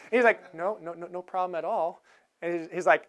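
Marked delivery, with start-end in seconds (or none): 0.5-2.0 much softer, hurried denial; nervous placating. Retold or imitated. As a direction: soothe the marshal quickly. Passenger placating marshal.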